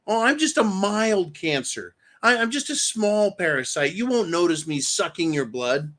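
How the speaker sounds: mock mild Democrat. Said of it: "what the fuck do you believe then".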